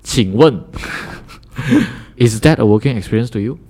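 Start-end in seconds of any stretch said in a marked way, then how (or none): 0.7-2.1 breathy laugh. Real, not acted. Laughs after Mandarin aside.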